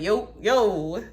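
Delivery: high, loud casual hello; hammed-up eager God; God answering fast. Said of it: "he be like".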